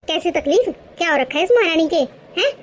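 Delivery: scolding mother-in-law. Acted. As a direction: bark at the lazy daughter-in-law. Mother-in-law mocks son and bahu. (ग़ुस्से में डाँटती सास)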